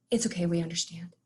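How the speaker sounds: whispered reassurance; hushed comfort. Retold or imitated. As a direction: staff whispering comfort to a crying family, hushed. Staff comforting a crying family.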